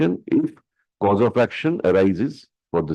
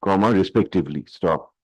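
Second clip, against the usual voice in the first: dictating. Real, not acted. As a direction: dictate each phrase for the stenographer. Dictates the court order.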